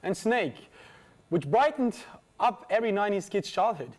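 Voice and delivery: lightly formal news-programme read; scripted studio link read; presenter's link. Acted. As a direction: introduce the next report to the audience. Presenter reads link to next item.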